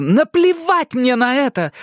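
angry snap. A narrator's reading. Mother snapping at Erik, loud angry bark. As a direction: bark it back at him. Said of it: "рявкнула Джеки".

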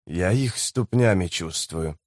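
low, soft muttering; quiet low mutter. Acted. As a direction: mutter it half to himself. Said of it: "пробормотал человек".

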